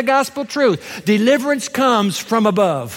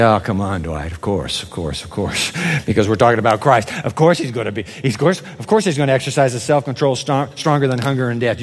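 mocking skeptic; 9 semitones lower, faster than usual. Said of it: "You say".

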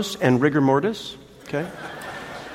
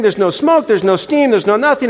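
higher, louder exasperated list; irritated; 6 semitones higher, 3 dB louder than usual. Retold or imitated. Husband stuck at the roadside, exasperated. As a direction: tick off each check in frustration. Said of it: "So I am irritated".

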